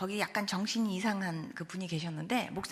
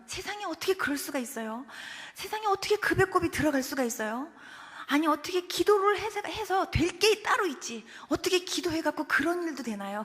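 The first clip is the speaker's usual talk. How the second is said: higher, insistent questioning; amazed disbelief; 5 semitones higher than usual. Retold or imitated. Baby's father marvelling to the preacher, amazed and incredulous. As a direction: marvel in rising protest.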